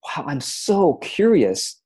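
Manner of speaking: drawn-out, wondering "Wow, I'm so curious"; slow curious wonder. Shown as a demonstration. Showing listeners how she greets tax forms, slow and curious. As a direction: savor each word like a fascinating discovery. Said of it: "I go".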